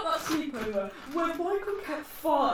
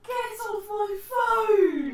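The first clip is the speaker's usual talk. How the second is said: yelling; 6 semitones higher, 4 dB louder, much slower than usual. Real, not acted. Someone grabs her phone.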